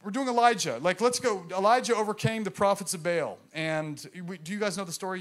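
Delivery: lightly hammed-up peppy study leader; mock Bible study leader. Preacher mocking church Bible studies, light peppy parody. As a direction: imitate an eager Bible teacher. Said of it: "this is how I hear Christians doing Bible studies".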